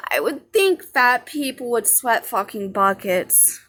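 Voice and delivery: slow, a touch of mock snark; lightly voiced comeback she never said; hypothetical snide retort. Imagining answering the lady back, slow mild snark. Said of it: "had I looked at her and said".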